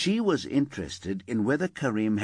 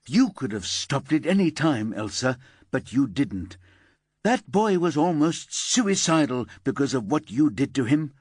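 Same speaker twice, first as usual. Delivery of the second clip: firm, slightly louder detective; stern reproach; 5 semitones higher, 4 dB louder than usual. Acted. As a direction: give no quarter. Paula berates Elsa.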